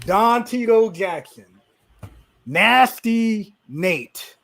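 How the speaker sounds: slow, drawn-out grand names; mock announcer introduction. Podcaster introducing his friend by nicknames, mock-grand announcer. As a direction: stretch each title like an announcer.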